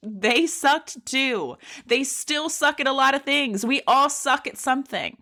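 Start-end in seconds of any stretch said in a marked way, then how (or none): 0.1-3.7 slow, laughing repeat. Real, not acted. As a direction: chuckle through it.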